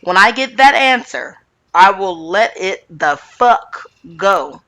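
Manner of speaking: slow, emphatic mock yell; imitated yell. Retelling Rinna demanding an answer from Sutton, mildly mock yelling. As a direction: act out a measured yell, word by word. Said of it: "Rinna yells and says".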